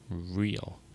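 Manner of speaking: lightly put-on aristocratic R on "real"; a hint of a mock aristocratic accent on "real". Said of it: "He pronounces the R with a mock aristocratic accent".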